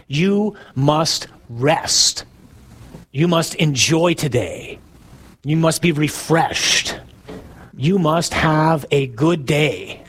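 very slow, word-by-word orders; emphatic command. Acted. Preacher spelling out God's command to rest, slow emphatic command. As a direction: space out each word as a decree.

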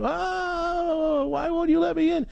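high, wailing mock moan; hammed-up whining through the window. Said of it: "you hear a moan".

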